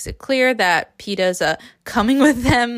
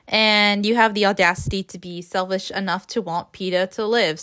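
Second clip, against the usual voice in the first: sarcastic. Real, not acted. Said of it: "I'm being sarcastic here".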